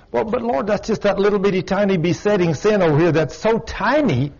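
high, wheedling excuse to the Lord; mock pleading sinner. Preacher mimicking a churchgoer begging the Lord to excuse a tiny sin, in a high wheedling voice. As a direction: play a whiny sinner bargaining with God.

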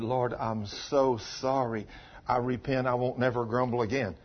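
soft, low, humble confession; acted repentant prayer. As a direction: imitate a quiet, contrite plea to the Lord. Acts out woman's repentant prayer.

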